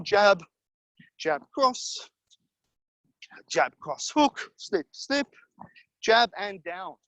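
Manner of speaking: punchy coach calling out punches; boxing coach calling combos. Acted. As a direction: call each punch short and sharp, on the beat.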